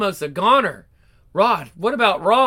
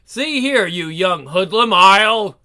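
threatening outburst; 5 dB louder, slower than usual. Acted. Ted threatens the rival.

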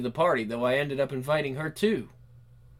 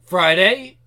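shocked shout; 2 semitones higher, 9 dB louder than usual. Acted. Shocked realization of the day.

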